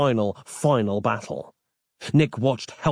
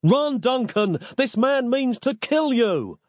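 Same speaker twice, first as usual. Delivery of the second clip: desperate yell; 11 semitones higher than usual. A narrator's reading. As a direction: scream the danger at him. Nick's repeated desperate warning.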